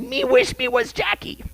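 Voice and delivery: lightly voiced snake; a hint of a slithery snake. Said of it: "That's a snake voice".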